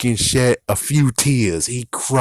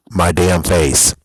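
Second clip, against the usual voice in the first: slow, louder, every word hit; slow emphatic; 5 semitones lower, 6 dB louder, slower than usual. Real, not acted. Vlogger hammering home his point to fans, slow and emphatic. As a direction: spell out my damn face.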